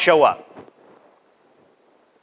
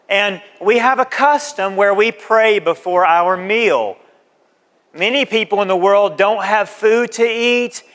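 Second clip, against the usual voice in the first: sample grace invite. Shown as a demonstration. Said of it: "Here's what you say".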